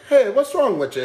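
a hint of British on a comforting line; half-hearted British accent; mock British accent. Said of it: "if I bring that British accent in".

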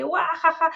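a short mock "guajaja" laugh; imitated laugh. Podcaster mimics the actress teasing Reese, mock laugh. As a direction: laugh it out like Sofía Vergara teasing. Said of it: "y se ríe".

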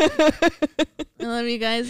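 sleepy, slow and drowsy; falling asleep. Real, not acted. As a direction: drift off as you say it. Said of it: "I'm literally falling asleep".

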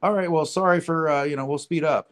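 high-pitched imitated climb-down; mock backing down. Four golfers back away from bigger man, mock apologetic. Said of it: "kinda backed away and went".

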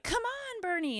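put-on high little-girl voice, lightly done; a hint of a bossy older child; bossy big sister. Mom voicing her daughter pulling her sister out, high child voice.

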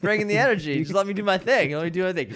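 hyped bro energy; loud and pumped up; amped up. Real, not acted. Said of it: "I've never seen this energy".

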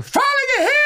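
sudden high-pitched military yell; bellowed sergeant reply. Acted. Sergeant answering a polite recruit, bellowing. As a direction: bawl it like a drill sergeant. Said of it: "era tudo no berro".

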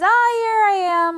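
high, frantic interrupting shout; loud cry. A narrator's reading. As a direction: burst in loudly to cut her off. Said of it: "Arthur cried".

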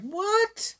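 high, squeaky hammed-up Chicago critic; cheesy Chicago accent. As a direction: pitch up a cheesy Chicago radio guy. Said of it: "the cheesed up Chicago accent".

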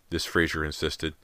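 usual speaking voice

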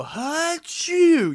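very high, loud mock achoo; imitating a huge sneeze in class; big loud sneeze. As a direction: blast out a fake sneeze. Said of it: "big loud sneeze".

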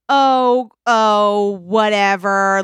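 drawn-out, huffy "whatever"; pouting. Acted. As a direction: sulk it out dismissively. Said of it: "he starts pouting".

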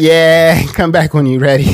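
laughing. Real, not acted. Laughing at friend's dog joke.

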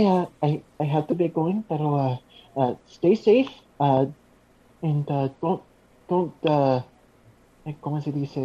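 nervous eager uptalk. Acted. Bashful goodbye in character.

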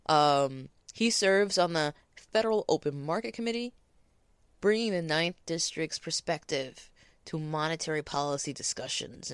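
loud read-out, close up; too loud. Real, not acted. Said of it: "I'm sorry I'm so loud".

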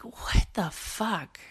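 slow breathy whisper of disbelief; exasperated whisper. Real, not acted. Nurse ranting to listeners about anti-vaxxers, slow exasperated whisper. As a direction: whisper it slowly, fed up and baffled.

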